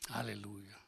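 soft, whispered praise; whispered hallelujah. Real, not acted. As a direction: breathe the word out softly. Quiet praise after pause.

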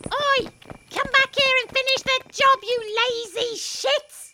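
loud, insulting yell; angry bawling. Acted. Cab driver yelling after fleeing gunmen, angry bawl. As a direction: bawl after them as they run off.

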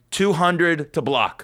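drawn-out host announcement; slow game show host. Pretend. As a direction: stretch it like a quiz host. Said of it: "all of a sudden be like".

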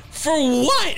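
a player's stunned laughing outburst; incredulous. Retold or imitated. Player asking why the woman chained herself, a laughing shout. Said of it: "and he goes".

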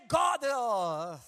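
preaching shout. Real, not acted. Preacher drives home his point to the congregation, shouting.

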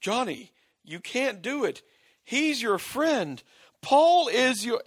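rising, pleading mock line; imitating Kathy's plea. Podcaster retells Kathy begging Johnny, mock pleading. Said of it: "she says".

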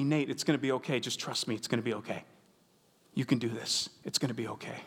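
soft, low reassurance from the guide; retold whisper. Boat guide to a nervous swimmer, softly reassuring. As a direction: murmur it calmly like a guide soothing a scared swimmer. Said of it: "the guide kept whispering to me".

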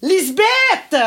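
high, insistent name call. Acted. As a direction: call again for someone offstage. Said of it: "Qu'est-ce que t'as à crier de même?". (appel aigu et insistant)

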